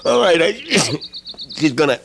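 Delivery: coughing, worn-out sick man; sick and weak. Acted. Sick man on the phone agreeing to the crime. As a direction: push the words out through a bad cold. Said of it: "You sound terrible".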